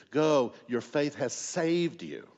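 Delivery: slow, weighty blessing; measured, drawn-out declaration; solemn pronouncement. Acted. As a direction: pronounce it slowly and deliberately. Quoting Jesus's blessing in sermon.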